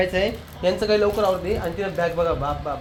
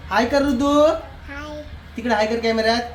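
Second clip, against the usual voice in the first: higher-pitched call to a little one; 5 semitones higher than usual. Real, not acted. Coaxing a small child to greet. (लहान बाळाला लाडाने, उंच आवाजात सांगणे)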